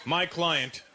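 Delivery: put-on Indian accent, rising into a high shout. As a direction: lawyer pleading in an Indian accent. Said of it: "pop in the Indian accent".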